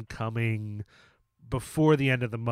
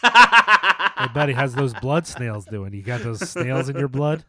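goofy mock voice; 8 dB louder than usual. Mock Vic Diaz greeting.

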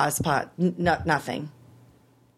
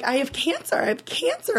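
distressed disbelief; 11 semitones higher than usual. Retold or imitated. Patient telling the crying nurse her news, retold distressed disbelief. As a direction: pitch leaping up, rising endings.

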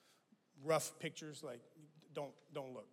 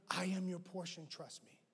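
tender God; 2 semitones higher, 6 dB quieter than usual. Retold or imitated. God's tender reply.

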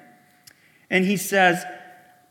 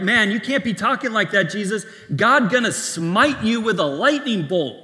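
mock alarm, pitched up; alarmed warning; 3 semitones higher, 4 dB louder than usual. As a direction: warn him urgently, voicing startled onlookers. Voicing alarmed onlookers warning Jesus.

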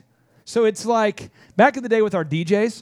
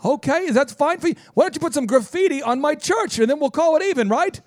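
hammed-up indignant rant, pitched higher; mock offended owner; 5 semitones higher than usual. Offended website owner ranting at the business coach, mock outrage. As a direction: act wounded and outraged, over the top.

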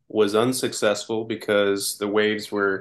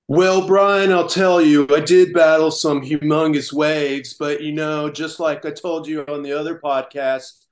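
hammed-up surfer dude, pitched up; 5 semitones higher, 4 dB louder than usual. Surfer bragging to podcast host about battling waves, mock surfer voice. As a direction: open loud and high, then ease into cool surfer bravado. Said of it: "You have the right voice for it".

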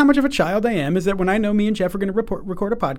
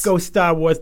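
Boston accent; slower than usual. Shown as a demonstration. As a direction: Go Star Wars with Boston r-drop, Stah Wahz. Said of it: "Boston accent".

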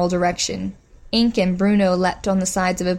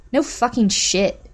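sharp retort; 4 semitones higher than usual. Acted. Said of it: "Bitch retorted".

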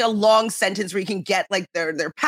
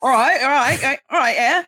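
quick-fire Cockney, pitched up; Cockney accent; 4 semitones higher, 3 dB louder than usual. Shown as a demonstration. Guest demonstrating for the host, higher Cockney accent. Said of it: "a little bit more Cockney".

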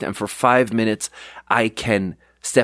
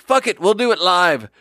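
higher, punchy repeat of the line; quoting chef; 7 semitones higher, 3 dB louder than usual. Retold or imitated. Second cook echoing the clip line, punchy. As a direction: echo the first cook, just as cocky. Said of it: "Chef Eric is like".

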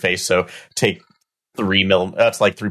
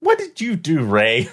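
high, incredulous accusation; accusing; 7 semitones higher than usual. Acted. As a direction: demand an answer in disbelief. Player accuses another character.

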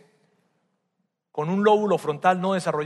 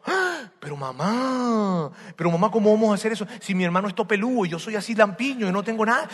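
alarmed protest; 4 semitones higher than usual. Acted. Jacob protests to mother.

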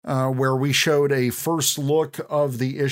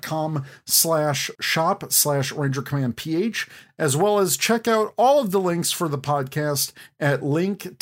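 podcast host intro. Acted. Show intro and patron read.

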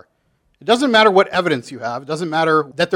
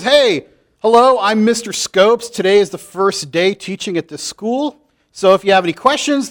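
new teacher Mister Scopes; 4 semitones higher, 4 dB louder than usual. Acted. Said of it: "it says".

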